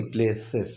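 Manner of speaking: "places" with the plural ending clear; stress on places. Shown as a demonstration. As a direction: hit the -es of "places". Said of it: "प्लेस नहीं".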